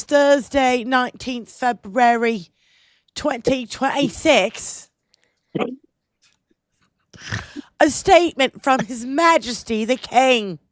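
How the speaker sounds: put-on Cockney reading a royal statement; Cockney accent. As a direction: read it in a cheeky Cockney accent. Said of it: "I love your Cockney accent".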